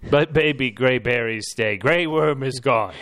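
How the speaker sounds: dramatic proclamation. Acted. Dramatic Grey Worm pronouncement.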